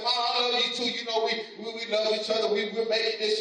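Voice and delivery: a hint of an eager child answering Mom; little girl. Little girl answers her mother.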